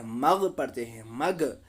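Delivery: "मग" with a bouncing echo on the final sound; wrong qalqala bounce. Retold or imitated. Teacher imitates a common mistake, "मग" bounced at the end. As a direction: release "मग" with an extra little vowel. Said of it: "बहुत सारे लोग कलकला करते हैं".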